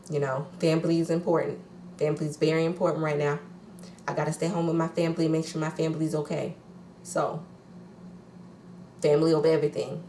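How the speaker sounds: a lightly put-on Teresa accent, fast; mock her family speech quickly, with a hint of her accent; quick, half-hearted Teresa accent; Teresa impression. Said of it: "I think it was my Teresa accent".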